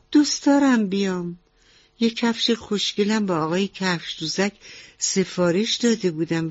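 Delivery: lightly voiced mouse lady.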